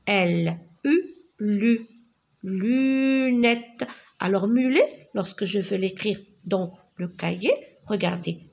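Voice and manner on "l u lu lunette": "lunette" with a long drawn-out first syllable; forming syllables. Shown as a demonstration. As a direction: spell "L U" apart, blend to "lu", then "lunette". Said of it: "je forme des syllabes".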